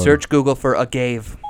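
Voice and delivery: loud, clear command to the phone; repeating to voice assistant. Real, not acted. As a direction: speak up for the voice assistant.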